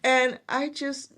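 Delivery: fighting back real tears as she speaks; choked up. Real, not acted. Guest tearing up retelling husband's praise. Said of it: "I'm making myself cry".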